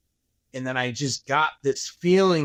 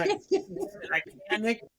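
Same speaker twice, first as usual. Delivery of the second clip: laughing; 5 dB quieter than usual. Real, not acted. Retelling panic, laughs mid-line.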